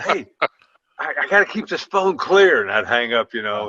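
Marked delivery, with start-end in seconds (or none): 0.0-2.6 hurried brush-off. Retold or imitated. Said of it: "brushing off the prank call".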